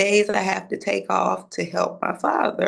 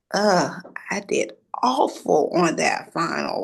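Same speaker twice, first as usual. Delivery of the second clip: near tears. Retold or imitated. Disappointed over bad final grade.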